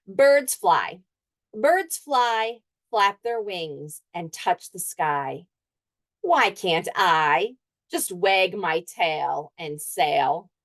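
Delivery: slow, lightly wistful recital; teacher voicing the dog's wishful poem, slow; dog reciting a poem. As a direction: let the dog wish he could fly, slowly.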